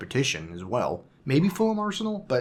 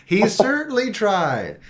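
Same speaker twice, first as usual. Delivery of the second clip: laughing; 8 semitones higher, 6 dB louder, slower than usual. Real, not acted. Laughing at the recap joke.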